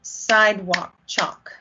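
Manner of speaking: slow, even syllables on Sidewalk chalk; words said to the rhythm. Shown as a demonstration. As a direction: speak Sidewalk chalk as beats. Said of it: "say with the word underneath".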